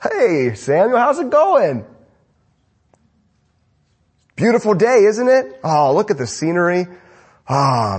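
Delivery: a lightly voiced carefree king slapping a back; cheerful Agag. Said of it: "Agag comes cheerfully".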